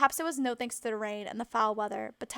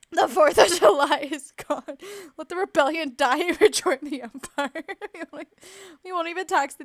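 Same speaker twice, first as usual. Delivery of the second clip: loud, laughing hammed-up redcoat voice; mock British imperialist; 5 semitones higher, 11 dB louder than usual. Joking British Empire to Kane, loud and hammy. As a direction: lord it over the colonies in jest.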